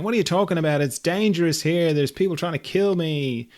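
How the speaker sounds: hammed-up panicked objection; mock alarm. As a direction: argue back as a besieged gamer. Gamer argues back that it's dangerous.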